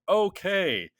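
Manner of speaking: high, loud eager okay; eager yes. Retold or imitated. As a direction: jump at the idea. Eager reply to tattoo idea.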